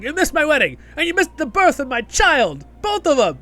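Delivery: high, loud wounded accusations; acted indignant shouting, piling up the grievances; Durin, really upset. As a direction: imitate an aggrieved dwarf bursting out. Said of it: "he's, like, really upset".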